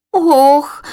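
high startled cry; little alarmed oh. A narrator's reading. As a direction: gasp out in alarm. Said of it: "викрикла лінивка".

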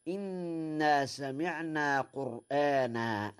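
slow recited verse; Quranic recitation. Shown as a demonstration. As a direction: recite it slowly. (تلاوة بطيئة)

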